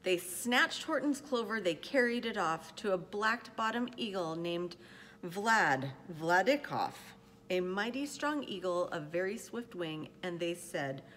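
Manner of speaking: measured, expressive picture-book reading; storyteller pacing out each phrase; story narration. A narrator's reading. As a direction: read it aloud to children, with care. Reads a picture book aloud.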